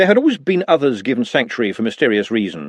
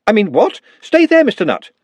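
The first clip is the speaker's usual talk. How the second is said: sharp, much higher and louder; startled wizard barking stay there; shouting; 10 semitones higher, 6 dB louder than usual. Acted. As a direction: snap the order at him. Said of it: "so why shout at him like that".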